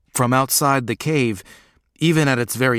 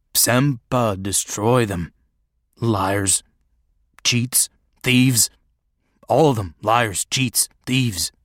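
put-on choked, suspicious old recluse ranting; bitter wild hermit; slower than usual. Hermit rants about runaways.

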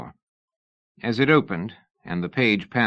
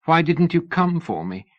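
put-on higher, worried young lady voice; anxious young woman; 8 semitones higher than usual. A narrator's reading. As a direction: voice her as a fretful young woman.

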